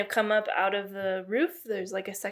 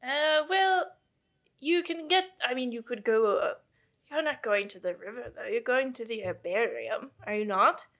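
Caroline's put-on accent; 3 semitones higher than usual. Astronomer querying visitors about their route, in a put-on accent. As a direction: question them in a light invented accent. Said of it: "what this accent is I've decided on for Caroline".

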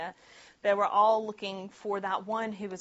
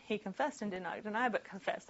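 softer and faster, reading the repeat back; quick quiet re-read; 6 dB quieter than usual. Shown as a demonstration. Pastor quietly rereads the odd verse to the congregation, quick and soft. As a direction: murmur the verse quickly to show the repetition. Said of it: "does that sound weird to anyone".

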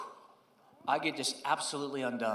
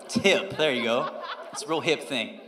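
laughing joke; 5 semitones lower than usual. Real, not acted. Joking old slang for elders.

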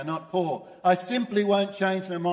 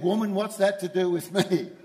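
blunt retort. Retold or imitated. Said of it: "he mightn't have said it in that tone".

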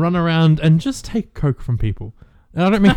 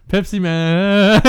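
Pepsi Man voice; 4 semitones higher, much slower than usual. Acted.

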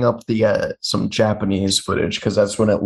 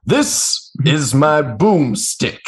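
Bruce Campbell; 4 semitones higher, much slower than usual. Retold or imitated. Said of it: "Bruce Campbell".

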